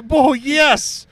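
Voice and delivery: Oh, yes! jumps high and loud; gleeful studio exec; mock excited. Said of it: "D C was like".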